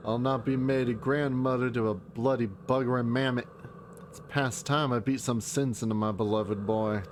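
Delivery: put-on a light Southern accent, stern; southern accent grandmother. Indignant grandmother voicing her scorn, in a light Southern accent. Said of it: "I gave her, like, a southern accent before".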